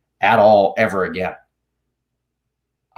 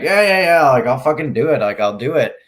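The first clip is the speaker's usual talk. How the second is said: dismissive yeah yeah; 2 semitones higher, 4 dB louder than usual. Retold or imitated. Retells brushing off the stewardesses.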